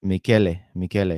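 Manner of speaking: "Michele" echoed as mee-KEH-leh; repeating the pronunciation. Shown as a demonstration. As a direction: repeat "Michele" with a hard k, sounding the last e. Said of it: "Michele or Michele?".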